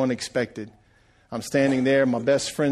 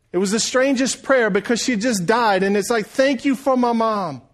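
preaching at full force. Acted. Preacher urges mothers in the crowd, climbing to a fervent shout. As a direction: preach it home to the congregation.

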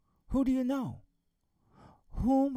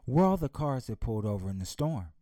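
father's voice; 4 semitones lower than usual. Acted. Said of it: "He said".

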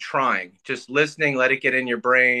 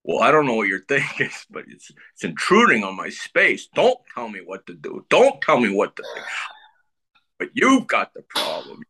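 Dustin Hoffman impression; 2 semitones higher than usual. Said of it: "this is Dustin Hoffman".

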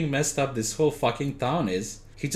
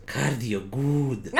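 mindless servant voice; much slower than usual. Acted. Igor's slow answer.

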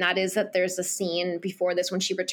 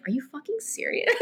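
incredulous quote breaking into laughter; laughing disbelief; 3 semitones higher, 5 dB quieter, faster than usual. Retold or imitated. Boy reacting to girl's secret, laughing mock disbelief. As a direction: retell his disbelief through a laugh. Retold disbelief, teller cracking up.

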